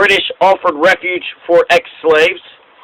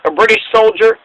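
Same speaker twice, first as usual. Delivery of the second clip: outraged Washington. Retold or imitated. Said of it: "what got George Washington to say".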